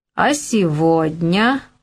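mocking, taunting, derisive tone. He speaks to a married woman he calls princess: mocking. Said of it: "произнес он с издевкой".

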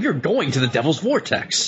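really excited, fired-up, high-pitched exclamation. Imagining a line from the film, excited Dan Aykroyd impression. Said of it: "Dan Aykroyd really excitedly saying".

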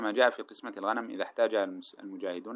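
ordinary talk, nothing marked

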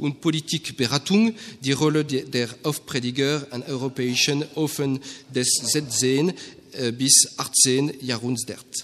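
put-on poor German accent, heavily French-accented.

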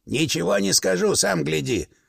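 ordinary talk

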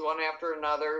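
usual speaking voice

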